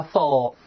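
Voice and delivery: "full" ending with tongue tip up on the L; clear final L. Shown as a demonstration. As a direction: finish "full" on a clear L, tongue held to the ridge. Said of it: "最后一定是舌尖抵住上一根". (full，词尾舌尖抵住上齿龈发L)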